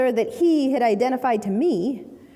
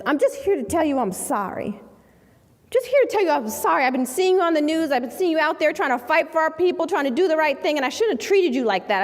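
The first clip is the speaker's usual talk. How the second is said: emotional apology; 3 semitones higher than usual. Retold or imitated. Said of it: "he's emotional, on the verge of tears".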